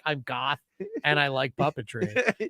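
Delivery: goth puppet fan. Retold or imitated. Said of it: "somebody out there that's like".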